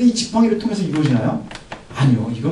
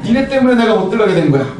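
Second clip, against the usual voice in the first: louder complaint with a laugh; resentful complaint; 2 semitones higher, 3 dB louder than usual. Retold or imitated. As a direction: Moses blaming the people, half laughing. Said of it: "이렇게 얘기를 해요".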